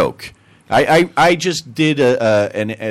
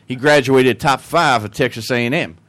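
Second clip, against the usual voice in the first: put-on Texan accent. Texan in a joke topping the Englishman, Texan accent. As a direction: answer as a bragging Texan. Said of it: "And the Texan goes".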